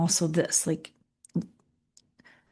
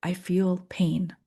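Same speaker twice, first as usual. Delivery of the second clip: slow labeling; 3 dB quieter, slower than usual. Shown as a demonstration. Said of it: "See if you can label it".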